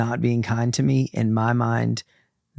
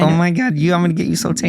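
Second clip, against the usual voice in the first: put-on Long Island accent; 4 semitones higher, faster than usual. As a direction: gush like a Long Island spray tanner. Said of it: "You better talk like".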